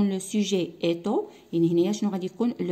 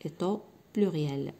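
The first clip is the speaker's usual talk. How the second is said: slow and low-key, split after "Est au"; slow dictation; 3 semitones lower, 5 dB quieter, much slower than usual. Shown as a demonstration. Teacher repeating the missing words for pupils to write, slow dictation. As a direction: dictate it softly, pausing before "pluriel".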